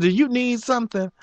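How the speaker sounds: a hint of a brusque boss; lightly voiced manager. Manager walking past asks him, lightly voiced.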